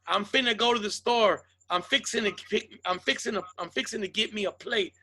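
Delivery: light southern accent demo. Shown as a demonstration. Explaining the so-called black accent, mild southern imitation. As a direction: show a casual southern way of talking. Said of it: "he sounds fucking southern".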